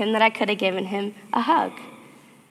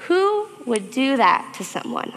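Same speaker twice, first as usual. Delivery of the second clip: hurt question; 4 semitones higher, slower than usual. Retold or imitated. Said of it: "I thought".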